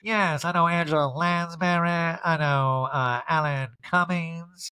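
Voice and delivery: name-drop in a grand mock voice; slow parody of showing off; mock bragging. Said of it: "I'm like".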